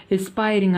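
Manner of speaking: ఎస్పైరింగ్ as "es-PIE-ring"; pronunciation demo. Shown as a demonstration. Teacher repeating the reading for students, ఎస్పైరింగ్ as "es-PIE-ring". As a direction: demonstrate ఎస్పైరింగ్, starting "es", then "pie-ring". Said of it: "అని పలకాలి".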